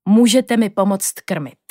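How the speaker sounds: put-on smiling old teacher. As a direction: invite them gently, unhurried.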